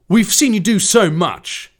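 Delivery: slow, high, loud attempted impression; Gordon Ramsay. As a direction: have a rough go at the celebrity's way of talking. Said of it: "This has to be Gordon Ramsay".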